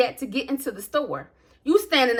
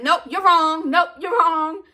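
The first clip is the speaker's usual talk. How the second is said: dismissive; 5 semitones higher, 3 dB louder, slower than usual. Retold or imitated. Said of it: "I just kept on saying".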